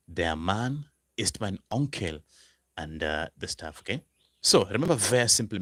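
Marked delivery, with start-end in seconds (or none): 0.1-2.2 slow model sentence. Shown as a demonstration. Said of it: "Then you could say".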